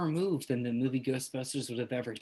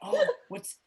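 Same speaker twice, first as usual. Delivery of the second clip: little ghost voice; 2 semitones higher than usual. Acted. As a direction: talk it gently as a timid ghost. Ghost NPC keeps talking.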